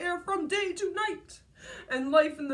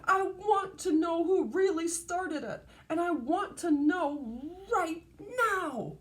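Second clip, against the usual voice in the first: mock angry demand; 4 semitones higher, 3 dB louder than usual. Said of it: "she shouted".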